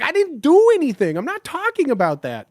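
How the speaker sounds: loud, high Chicago protest; mock defensive Chicago outburst. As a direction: snap back defensively in a Chicago voice. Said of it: "my Chicago comes out when I get defensive".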